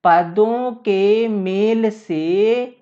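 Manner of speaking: पदों के मेल से stretched out word by word; slow dictation. Shown as a demonstration. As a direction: dictate very slowly, holding each word. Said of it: "यहीं पे confusion होता है". ("पदों के मेल से" को बहुत धीरे, खींचकर)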